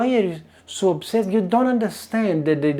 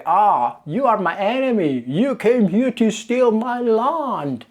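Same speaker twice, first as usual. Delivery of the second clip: slow, mocking voice of an angry local, higher by the end; mock accusing voice, drawn out; mock xenophobe; 5 semitones higher than usual. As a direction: sneer it out slowly like a paranoid neighbour. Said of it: "you guys are thinking".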